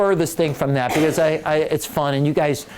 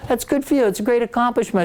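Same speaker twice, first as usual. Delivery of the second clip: much higher, gushing delighted voice; a gruff man suddenly thrilled, pitched way up; delighted coach; 9 semitones higher than usual. Retold or imitated. Cranky coach suddenly delighted by a gift, much higher and gushing. Belichick's demeanor changed, quoted.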